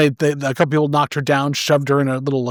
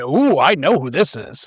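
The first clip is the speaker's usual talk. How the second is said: ordinary delivery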